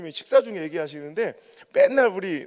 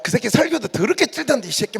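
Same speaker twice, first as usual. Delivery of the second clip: mock blunt insult; 4 semitones higher, 6 dB louder than usual. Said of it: "막 뭐 이렇게 안 하고".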